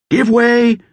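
confident ringing shout to the crew; clear ringing command. A narrator's reading. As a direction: order the rowers off with authority. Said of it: "a clear, confident, ringing voice".

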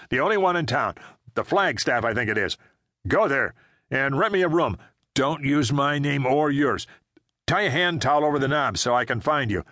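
a hint of a tense man on the run; urgent fugitive. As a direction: rattle off the plan under pressure. Frank gives rapid orders.

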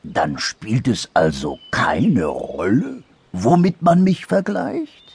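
slow start, lifting high into the question; mildly disappointed anteater. Acted. Anteater disappointed by dormouse's verdict, slow hesitant question.

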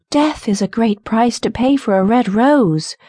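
lightly voiced nightingale cry; nightingale's cry. A narrator's reading. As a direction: lament it with pitch lifted. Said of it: "cried the nightingale".

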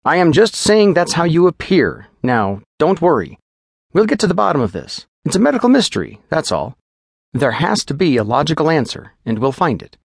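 brisk, upbeat physician calming a patient; lightly voiced chipper doctor; reassuring doctor.

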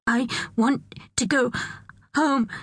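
high, halting, near tears; gasping. A narrator's reading. Pearl begging to leave the tea, gasping. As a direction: gasp it out in broken pieces. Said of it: "she gasped".

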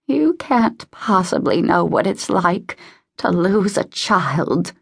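lightly voiced old lady, huffy then wounded; a touch of self-pity, stretching the key words; bitter old woman. Voices bitter, grieving Mrs Pembroke.

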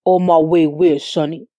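low, calm male-partner reply. A narrator's reading. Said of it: "he said calmly".

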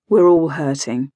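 low, subdued admission; voice dropped. Acted. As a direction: drop the pitch, heavy-hearted. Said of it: "His voice dropped".

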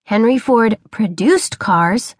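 slow, deliberate correction; correcting. Acted. Boy corrects his father, slow and pointed. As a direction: set him straight word by word. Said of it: "correcting him".

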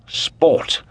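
sport repeated high and airy; lifted sport. Acted. Lord Antony repeating sport to the Comtesse, high and airy. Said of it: "with his jovial, loud, and pleasant voice".

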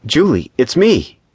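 high, slow plea for recognition; urgent appeal. A narrator's reading. Paul reaching for Julie's hand, urgently appealing. Man pleading with his lost love.

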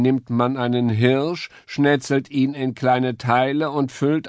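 lightly voiced predator; sinister relish. A narrator's reading. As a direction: savour the threat to the stag. Musketeer explains recipe.

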